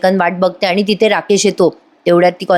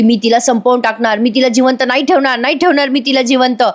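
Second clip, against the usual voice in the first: mild mock yell; 4 semitones higher than usual. Priya threatening to finish Sayali off, mild mock yell. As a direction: threaten in a restrained retold yell. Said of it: "Priya मात्र मोठ्या मोठ्याने ओरडत असे".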